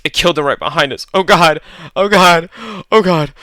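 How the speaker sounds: rising into high, loud panicked cries; panicked terror. Acted. Natalie to her friends after the killing, panicking. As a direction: break into frantic terror.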